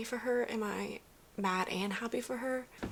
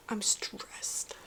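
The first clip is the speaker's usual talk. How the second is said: whisper; 6 dB quieter than usual. Real, not acted. Tense reading moment.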